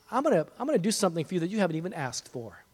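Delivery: hushed, intimate assurance; tender promise. Acted. God promising a listener something unasked for, tender promise.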